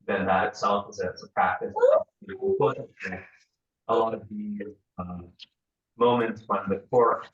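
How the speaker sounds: breaking up on a bad connection; choppy, garbled call audio; scrambled voice. Real, not acted. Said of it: "you're breaking up so much we can't understand you".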